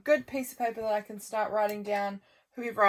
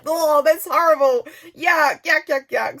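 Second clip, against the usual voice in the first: disgusted yuck; 6 semitones higher, 8 dB louder than usual. Retold or imitated. Reacting to husband eating old egg.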